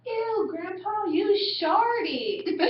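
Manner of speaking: put-on a light kid voice breaking into laughter; imitating a little boy. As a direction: play the disgusted grandson. Little boy voiced in movie retelling.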